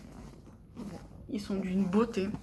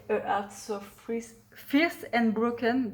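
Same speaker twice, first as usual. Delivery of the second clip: clumsy English accent; slower than usual. Real, not acted. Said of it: "mon accent anglais est toujours assez dégueulasse".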